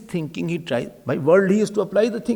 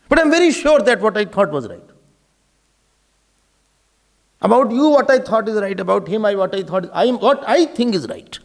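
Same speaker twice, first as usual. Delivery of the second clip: dead sure of yourself, firm stress on the key words; overconfident certainty. Acted. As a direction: insist you are right, acting out the egotist. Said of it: "speaks with lot of confidence".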